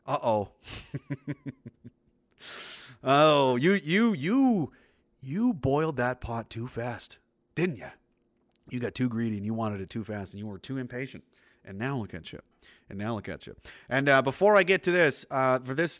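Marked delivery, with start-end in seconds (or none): 3.0-13.6 mock scolding.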